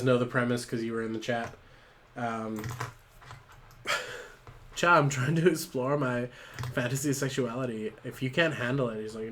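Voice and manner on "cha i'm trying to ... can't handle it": a hint of Valley Girl; lightly dismissive Valley Girl. Ruth challenges her coworker, light Valley Girl voice. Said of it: "Oh, Valley Girl voice".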